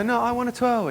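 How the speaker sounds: high-pitched mock girly demand; pleading girl. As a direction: imitate a girl begging for her turn. Imitated girl begging for a twirl.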